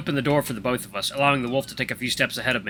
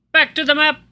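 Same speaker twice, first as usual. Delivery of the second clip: high, loud bright exclamation; excited; 8 dB louder than usual. Acted. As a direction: cheer it out. Cheerful exclamation, narrator.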